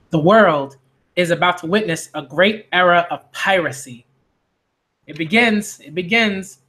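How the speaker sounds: measured narration with dramatic pauses; story narration. Acted. Manga reader opens the pirate saga, measured narration. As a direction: narrate the opening of an epic tale.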